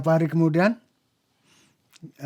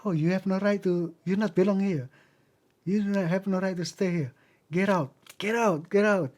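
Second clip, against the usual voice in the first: retold scolding, pitched up without shouting; mock angry; 4 semitones higher than usual. Grave dwellers chasing out the newly buried man, mock angry. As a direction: imitate residents ordering an intruder away. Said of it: "Pada marah-marah".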